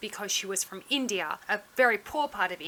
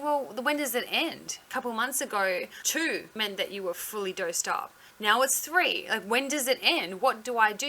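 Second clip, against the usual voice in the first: mildly exasperated, slightly raised; retold frustration. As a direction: act out a patient getting frustrated. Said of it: "starts getting frustrated".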